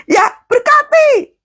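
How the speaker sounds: very high, drawn-out call; exhorting cry. Real, not acted. Preacher drives home blessing instead of complaining, high exhorting cry.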